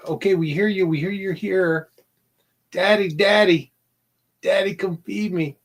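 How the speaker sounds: high pleading little critter; needy pet voice. Retold or imitated. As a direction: beg like a hungry pet. Voicing the hungry animals.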